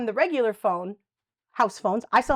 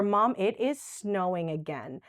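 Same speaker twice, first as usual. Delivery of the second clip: gentle slow chat; 2 semitones lower, slower than usual. Shown as a demonstration.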